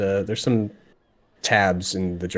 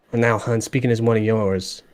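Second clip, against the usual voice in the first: stern Dragonborn; faster than usual. Acted. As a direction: warn them off as a stern Dragonborn. She has this stern look.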